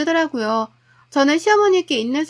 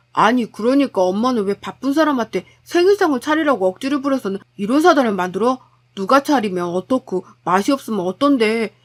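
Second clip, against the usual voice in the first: lightly voiced husband, mildly reproachful; exasperated husband; 2 semitones lower than usual. Son defending his wife to his mother, mildly exasperated. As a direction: push back at mother with some exasperation.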